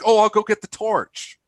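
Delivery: high mock British accent on "torch"; a kid playing British, asking for the torch; light British child accent, amused; imitating British child. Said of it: "talking with a little bit of an accent".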